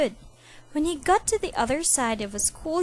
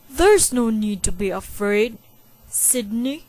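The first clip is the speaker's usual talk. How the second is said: comforting; 7 dB louder than usual. A narrator's reading. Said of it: "Dad tried to comfort him".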